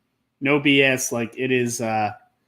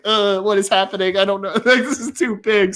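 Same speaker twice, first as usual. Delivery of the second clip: acting out a mildly flustered reaction; mock overwhelmed; 3 semitones higher than usual. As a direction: play overwhelmed, with a laugh breaking in. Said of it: "my wife was super overwhelmed".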